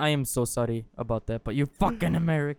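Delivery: mock-foreign accent scolding; badly faked foreign accent; French accent slipping into Indian. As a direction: wobbly fake accent, French drifting Indian. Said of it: "You went, like, Indian for".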